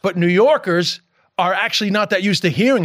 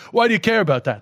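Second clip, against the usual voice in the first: higher, innocently curious question; just curious; 4 semitones higher, faster than usual. Shown as a demonstration. Guest showing what they really meant by the question, curious. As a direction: ask out of simple curiosity, with no challenge. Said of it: "I'm just curious".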